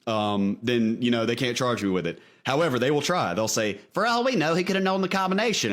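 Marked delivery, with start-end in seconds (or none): 3.9-5.7 high, smug prosecutor voice; prosecutor impression. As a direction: mimic a prosecutor pitched way up. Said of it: "I'm using my imitation of my prosecutor's voice".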